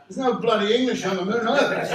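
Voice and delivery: loud, high indignant comeback; re-enacted brash, defiant protest; arrogant retort. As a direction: throw it back with cocky outrage. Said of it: "Look at that arrogance".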